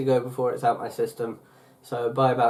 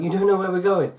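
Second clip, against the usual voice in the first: higher-pitched imitation of a worrier; mock panic; 7 semitones higher than usual. Imitating friend still doubting on the way back, mock panicky. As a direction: fret in mock alarm. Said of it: "she was still like".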